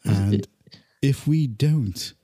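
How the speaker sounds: measured, playful threat with long pauses; mock menace. Telling Cheshire people they are watched, mock menace.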